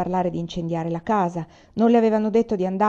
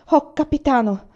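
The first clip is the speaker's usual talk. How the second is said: higher, eager exclamation; exclaiming; 6 semitones higher, 4 dB louder than usual. A narrator's reading. Sergeant teasingly hailing the young soldier, eager exclamation. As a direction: call out playfully to the soldier. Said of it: "esclamò il sergente".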